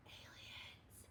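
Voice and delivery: breathy unvoiced whisper. A narrator's reading. Buster seeing flashing lights, whispering. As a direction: breathe the word in fear. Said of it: "whispered Buster".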